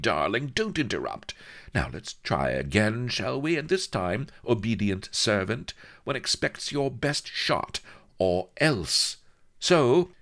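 high, teasing, commanding lady voice; sultry pirate mistress. Acted. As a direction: purr it like a bossy seductress. Anne Bonny's seductive voice.

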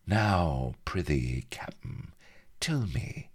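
affected lisp, jumping in pitch and dropping away. A narrator's reading. Bilbo taunting Avery as he drops his disc, lisped. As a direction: lisp it tauntingly, trailing off on "captain". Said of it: "he lisped".

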